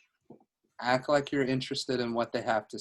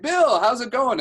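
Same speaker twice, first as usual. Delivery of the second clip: high, loud, exuberant hello; old-buddy greeting; 11 semitones higher, 9 dB louder than usual. Shown as a demonstration. Coach calls a random agent like an old buddy, big hearty greeting. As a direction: sound as if you know him well. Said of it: "like, I must know this guy".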